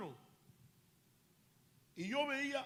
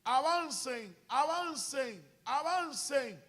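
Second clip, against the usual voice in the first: mock military command, a little louder; retold officer's shout; 4 semitones higher, 6 dB louder, slower than usual. High-ranking officer in a vision orders soldiers forward, retold shout. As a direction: call out like an officer ordering an advance. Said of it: "comenzó a gritar".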